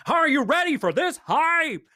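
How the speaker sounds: high, loud, slow hyped announcer yell; mock hype scream. Mocking loud American casters, a drawn-out hype yell. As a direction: stretch it out like a stadium hype man. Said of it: "they scream at you louder".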